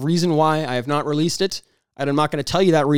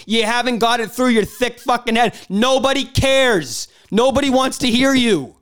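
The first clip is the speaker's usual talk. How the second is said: angry rant; 6 semitones higher than usual. Real, not acted. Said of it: "Do I have to stoop down to this angry level?".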